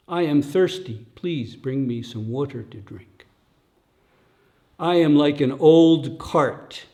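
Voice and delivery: put-on weary old Buddha. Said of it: "Again, quoting Gautama Buddha".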